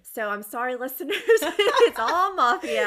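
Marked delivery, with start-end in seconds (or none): 1.2-2.9 excited exclamation. Real, not acted. Confessing her mafia reading streak.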